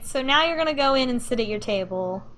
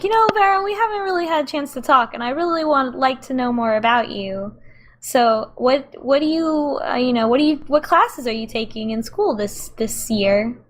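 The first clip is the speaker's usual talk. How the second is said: higher, eager awkward voice; awkward stepmom; 3 semitones higher than usual. Acted. Amanda tries chatting up her partner's daughter, higher and eager. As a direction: reach out nervously as the would-be stepmom. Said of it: "Amanda is gonna try to talk to you".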